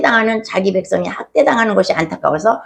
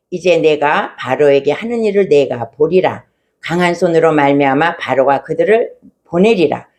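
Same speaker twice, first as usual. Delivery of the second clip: lower, measured formal recitation; scripture reading; 4 semitones lower than usual. A narrator's reading. Preacher reading God's answer to Moses, formal scripture reading. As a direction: read the verse out evenly and solemnly. Reads the Bible verse aloud.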